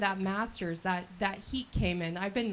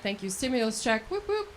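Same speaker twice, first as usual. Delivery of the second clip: cheer. Real, not acted. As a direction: celebrate the stimulus check with a little whoop. Cheering stimulus check.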